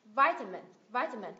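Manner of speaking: "vitamin" punched on its first syllable; emphasized first syllable. Shown as a demonstration. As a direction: hit the start of "vitamin", let the rest fall.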